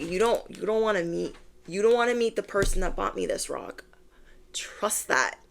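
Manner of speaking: whispered warning about the husband; threatening whisper. Acted.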